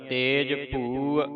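ਤੇਜ ਭੂ slowly, the ਭੂ with a clear vowel sound. Shown as a demonstration. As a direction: draw out ਤੇਜ ਭੂ, let the ਐੜਾ be heard. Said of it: "ਐੜੇ ਦੀ ਆਵਾਜ਼ ਉਚਾਰਨ ਕਰਨੀ ਹੈ". (ਭੂ ਐੜਾ ਲਾ ਕੇ)

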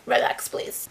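whispered plea from a tired body; body begging. Retold or imitated. Her body whispering for rest. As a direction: breathe it like your aching body. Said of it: "I feel like my body's just like".

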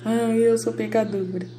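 slow put-on wail of guilt; hammed-up sinner's lament; mock self-pity. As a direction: whimper it in mock remorse. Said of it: "E eu não fico".

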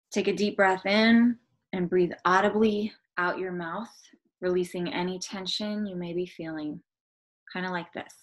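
measured guided-meditation delivery with pauses. Acted. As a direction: lead them gently into the breathing.

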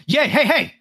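scolding worker. Acted. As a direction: snap at the customer. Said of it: "fast food worker voice lines".

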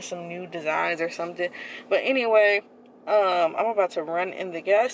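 muffled behind cloth mask; speaking with covered mouth; through a face mask. Real, not acted. Seen 3: Black face mask worn over mouth and nose throughout; reference frames unmasked.

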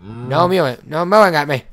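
loud, fed-up telling-off; loud mock threat; exasperated scolding. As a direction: snap at a noisy pet under pressure. Threatening mewing animal under pressure.

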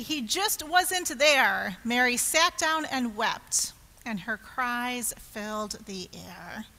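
put-on children's story narration. A narrator's reading. Telling children Mary wept, expressive narration. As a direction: let the sad line sink down gently.

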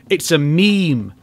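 slow, flat-voiced statement of fact; slow deadpan. Shown as a demonstration. Telling Homelander his milk pose is a meme, slowly. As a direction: let it land slowly. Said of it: "repeats the line louder".

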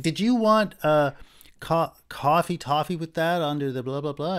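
high, loud mock cashier voice; imitating the cashier. Shown as a demonstration. Teacher mimicking a cashier in a crude retelling, high and loud. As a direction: squeak it out as the cashier. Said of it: "I'd be trying to imitate her".

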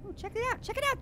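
hushed excitement. Real, not acted.

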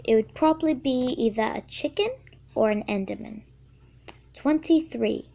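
a kid's playful attempt at a British accent; lightly faked British accent, casual; put-on British accent. Answering Q&A questions for her video, in a playful British accent. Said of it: "How about I talk the rest of this video in British?".

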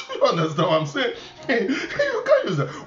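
chuckling through the words, pitch jumping high; laughing. Real, not acted. Preacher to congregation on careless language, laughing. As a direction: laugh while you admonish.

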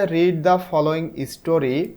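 each English word read very slowly and clearly; slow reading aloud. Shown as a demonstration. Teacher reading the instruction to her class, very slow. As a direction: spell it out slowly for the pupils.

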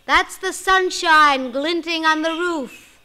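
scornful stepmother. Acted. Stepmother scolding.

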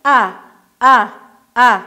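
short ا vowel repeated; آواز کوتاه ا; sound of alef. Shown as a demonstration. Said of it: "آواز الف چی است؟".

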